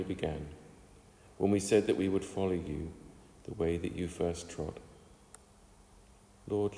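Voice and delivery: measured, reverent prayer with pauses between phrases. Real, not acted. Leads closing prayer.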